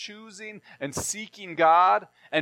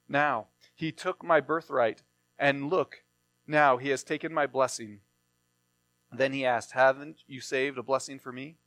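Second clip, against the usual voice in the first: scripture reading; 3 semitones lower than usual. Acted. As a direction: read the passage steadily to the congregation. Reading scripture aloud in sermon.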